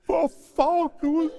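high-pitched, pleading complaint; dismayed protest. Acted. Abraham objecting to God's order, high dismayed whine. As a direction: whine it upward in mock dismay.

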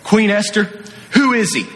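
king demanding an answer of Queen Esther; indignant king. Retold or imitated. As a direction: demand to know who dared, voice up. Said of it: "Xerxes says".

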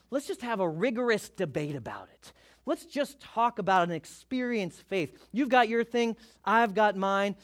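pipe-smoking intellectual. Pretend. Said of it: "He's a real intellectual type".

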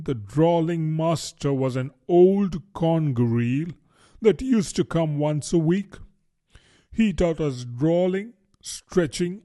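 lightly voiced turtle, high and deliberate; Mock Turtle. Mock Turtle counts off subjects on his flappers, deliberately.

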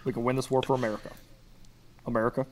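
quick, lightly voiced presidential impression; Obama. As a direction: rattle off the phrase like a president, then pause. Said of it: "word you're saying is still so fast".

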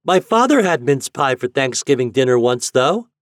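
put-on high, loud boyish call; piping boy calling back; shrill but clear. A narrator's reading. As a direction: shout it clearly like a proud child. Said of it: "Ben's voice was shrill but clear".

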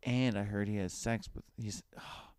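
mock fan gush. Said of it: "let's try that again".

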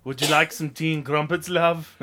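mock British accent. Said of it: "Hello, love".

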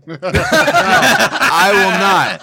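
drawn-out, laughing no; laughing refusal. Real, not acted. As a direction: refuse slowly through a laugh. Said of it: "I'm actually starting to get mad now".

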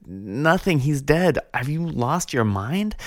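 put-on the young monks can't believe it; young monks asking if the old monk has lost his mind, exasperated. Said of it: "they said".

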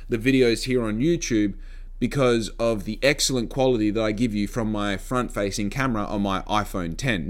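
dry mock praise; sarcastic, pretending to be proud. Real, not acted. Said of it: "And yes, I'm being sarcastic".

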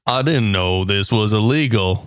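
put-on low, light Chinese accent. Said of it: "your Chinese accent is, is much improved".

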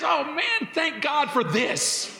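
high bright burst of thanks, slowing on thank God; joyful thankful exclaim. Shown as a demonstration. Preacher showing the grateful way to react. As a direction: exclaim it like you just found a blessing. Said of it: "rather than".

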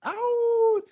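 echoed sign-off. Acted. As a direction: bounce the sign-off back. Echoing sign-off.

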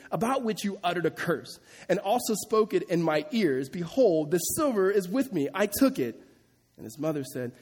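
steady formal Bible reading; scripture reading. Acted. Pastor reading scripture to his congregation, measured and formal. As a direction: read the passage out to the church. Reads scripture passage aloud.

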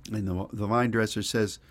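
ordinary talk, nothing marked

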